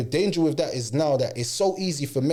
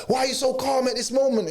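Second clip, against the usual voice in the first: mock girlfriend shout; 6 semitones higher than usual. Girlfriend voiced demanding answers.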